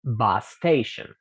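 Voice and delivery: "bus station" slowly, one shared s sound; slow linked demo. Shown as a demonstration. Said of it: "Repiten conmigo". ("bus station" lento y unido)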